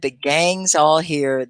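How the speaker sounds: slow, drawn-out cheerful announcement; slow quote. Retold or imitated. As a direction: say it slowly like a greeting. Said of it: "I said".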